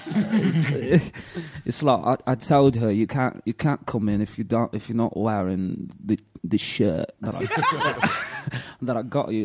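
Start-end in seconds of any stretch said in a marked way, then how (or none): 2.9-9.4 British rock star. Pretend. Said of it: "doing nineteen eighties British rock star".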